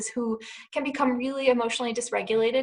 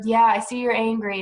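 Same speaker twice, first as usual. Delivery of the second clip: dry, mocking, louder take on the words; sarcastic voice; 6 dB louder than usual. Shown as a demonstration. Parent showing the wrong way to answer an angry teen, sarcastic. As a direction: say it like you don't mean it. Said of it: "in a sarcastic voice".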